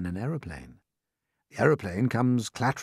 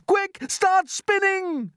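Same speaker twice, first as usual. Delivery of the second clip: high, loud, slow command; urgent order; 6 dB louder, much slower than usual. Acted. James ordering the silkworm to spin.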